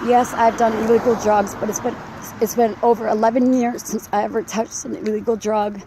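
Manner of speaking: breathless, strained voice; talking while winded from walking; out of breath. Real, not acted. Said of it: "Sorry about my voice".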